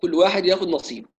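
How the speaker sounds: colloquial Egyptian proverb; casual Egyptian phrasing; Egyptian dialect. Real, not acted. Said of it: "باللهجة المصرية". (باللهجة المصرية)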